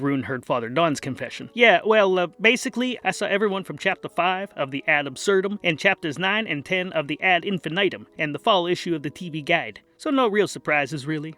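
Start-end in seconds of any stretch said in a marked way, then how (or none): 1.5-11.3 a lightly voiced lazy holy man; casual priest. Father Don confesses.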